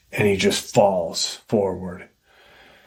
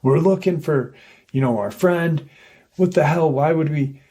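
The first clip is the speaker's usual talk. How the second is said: mock heated bickering, pitch raised; quick, higher imitation of an argument, no real shouting; retold yelling; 5 semitones higher, faster than usual. Geologists accusing each other while looking for their friend, mild mock yelling. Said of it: "yelling at each other".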